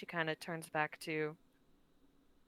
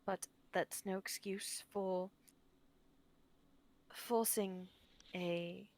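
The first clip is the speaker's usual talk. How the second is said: sincere apology. Acted. Tilda's heartfelt apology in character.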